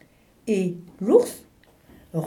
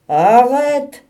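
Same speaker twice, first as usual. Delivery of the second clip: firm stop; 6 semitones higher, 10 dB louder than usual. Acted. Bear cuts off penguin's rant.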